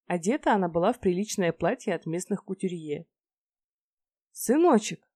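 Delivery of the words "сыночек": high delighted call of her son; mother overjoyed to see son, high joyful call; joyful cry. A narrator's reading. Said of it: "обрадовалась Пандора".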